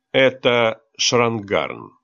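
slow, calm and even. Acted. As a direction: say it slowly, calmly. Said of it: "спокойный голос Кайла". (спокойно и медленно)

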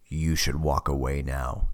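deep, slow movie trailer voiceover; low, slow menacing trailer voice; horror trailer voice. Acted. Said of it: "deep and low like a movie trailer voiceover".

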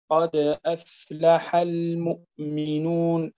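slow recited قد أفلح المؤمنون with a light bounce on د; Quranic recitation. Shown as a demonstration. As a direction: recite it slowly, the د of قد just tapped. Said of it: "عند الوقف عليها تصبح كبرى". (ترتيل بطيء مع قلقلة صغرى)

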